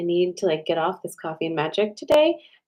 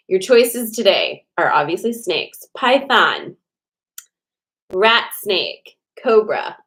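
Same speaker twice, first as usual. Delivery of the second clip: louder, punchy announcement; announcing; 6 dB louder, slower than usual. Real, not acted. Announcing today's snake choices to viewers loudly. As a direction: call out the choices like a host. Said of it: "announcing choices again".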